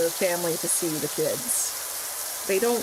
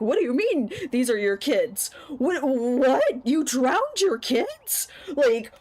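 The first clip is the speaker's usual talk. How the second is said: higher, incredulous family voices rising to a whisper; freaking out; 5 semitones higher, slower than usual. Retold or imitated. Family demanding answers from their daughter, shocked. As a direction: act the family's shocked disbelief. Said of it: "the family's starting to freak out".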